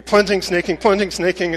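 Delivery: mildly angry, driven repetition; kinda angry. Retold or imitated. Preacher retelling toilet struggle, a touch angry. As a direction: imitate mounting irritation at the chore. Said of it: "I'm getting kinda angry".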